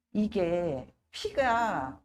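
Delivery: ordinary talk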